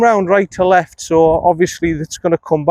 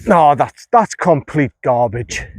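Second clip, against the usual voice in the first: frustrated; 2 semitones lower, slower than usual. Real, not acted. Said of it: "I'm getting a bit frustrated now".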